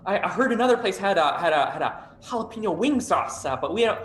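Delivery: lightly voiced chipper Midwestern host; a hint of a bright Midwestern host. GM voices food court host.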